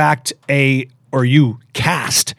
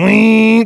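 high, drawn-out imitated whine; imitated coffee-making whine; 6 semitones higher, 3 dB louder than usual. Son recalls mom making coffee, high imitated whine. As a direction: mimic a kitchen noise on a high note. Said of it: "now I grew up hearing".

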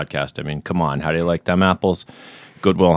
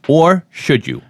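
dramatic teaser; 7 semitones higher, slower than usual. Acted. Mock suspense teaser.

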